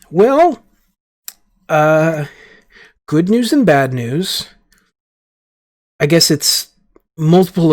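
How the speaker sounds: a light, hesitant official voice; ambassador voice. Acted. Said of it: "and the ambassador goes".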